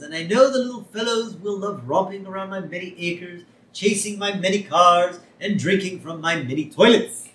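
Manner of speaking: hammed-up rich old schemer relishing each item; Mister Burns. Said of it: "he's talking about the puppies".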